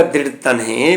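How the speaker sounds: ਦ੍ਰਿੜ ਤਨਹੇ ending in a soft he sound; correct pronunciation. Shown as a demonstration. Teacher telling students how to pronounce it, ending in he. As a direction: end ਤਨਹੇ with a breathy he. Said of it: "ਤੋ ਉਚਾਰਨ ਹੋਵੇਗਾ".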